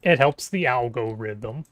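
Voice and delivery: slow, mechanical robot voice. Pretend. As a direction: speak slowly like a robot. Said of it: "And here is now my robot voice".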